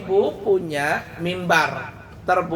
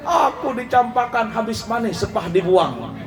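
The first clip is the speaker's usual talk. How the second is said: hammed-up wail starting high, then sulking; mock wailing; 3 semitones higher, slower than usual. Palm stalk wails to the Prophet, hammed-up crying. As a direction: playfully wail as a jilted lover. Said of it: "tambah meraung dia".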